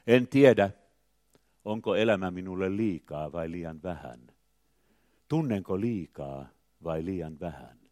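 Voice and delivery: measured reading, each phrase opening firmly then falling away; poem recitation. Acted. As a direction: recite it line by line with pauses.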